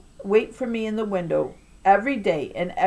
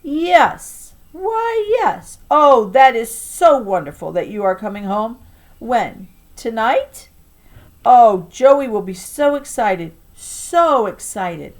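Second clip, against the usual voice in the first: gushing excitement; 3 semitones higher, 5 dB louder, slower than usual. Acted. Grandma on the phone hearing mom is coming home, gushing. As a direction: gush with slow, emphatic delight.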